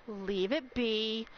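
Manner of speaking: slow, low, controlled request; measured plea. Real, not acted. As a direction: say it slowly, reining it in. Telling viewers to stop gifting.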